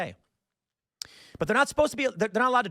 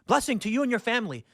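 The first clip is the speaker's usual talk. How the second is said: higher, gushing thanks, lightly imitated; grateful driver; 5 semitones higher than usual. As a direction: imitate the driver overflowing with gratitude. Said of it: "his demeanor changes instantly".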